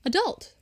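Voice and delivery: adult stressed on the second syllable; American pronunciation. Shown as a demonstration. Showing how Americans differ, American adult. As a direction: say a-DULT, American style. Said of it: "they would say adult".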